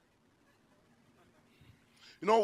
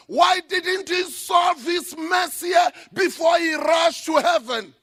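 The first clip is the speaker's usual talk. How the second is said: a widow scolding the pastor, louder and higher; angry widow; 4 semitones higher, 4 dB louder than usual. Retold or imitated. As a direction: demand it like a furious widow. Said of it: "She will be saying".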